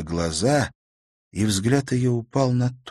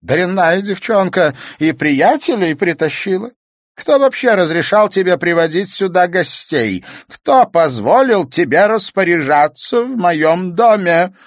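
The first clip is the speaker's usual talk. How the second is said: put-on angry old woman; 10 semitones higher, 8 dB louder than usual. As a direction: tear into the girl like a furious old crone. Grandmother scolds girl angrily.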